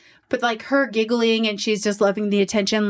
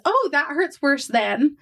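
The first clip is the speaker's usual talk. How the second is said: mock dramatic yelp; 4 semitones higher, slower than usual. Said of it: "She dramatically yelps and laughs as she says".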